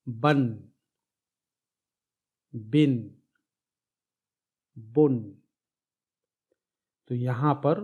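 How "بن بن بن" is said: بن with a clear added n at the end; teacher sounding out بن with the nun sound; nunation drill. Shown as a demonstration. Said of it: "دو حرکت یعنی تنوین کے column کو دیکھیے". (تنوین کے ساتھ بن، بن، بن واضح نون کی آواز)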